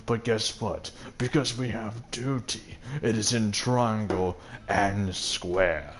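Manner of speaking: lightly voiced snooty father quoting duty; mocking pompous father. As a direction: drone it out like a smug elder. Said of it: "he's just like".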